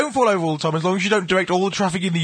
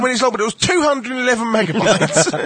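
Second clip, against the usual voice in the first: mock listener voice; 5 semitones higher, faster than usual. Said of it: "Everyone goes".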